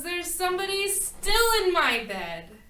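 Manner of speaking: high, loud cry of alarm; a little bear screaming at the intruder; Baby Bear screaming. A narrator's reading. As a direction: shriek it to wake the house. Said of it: "And Baby Bear screams".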